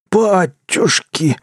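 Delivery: slow, high astonished cry; exclaiming tramp. A narrator's reading. The tramp spotting the battered dog, slow and high. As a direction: gasp it out in shock. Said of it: "воскликнул человек".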